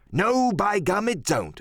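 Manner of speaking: hearty pirate agreement with a swooping tune; Silver, emphatic pirate cook. Acted. Silver agreeing with Merry, swooping pirate voice. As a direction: leap high, then drop away.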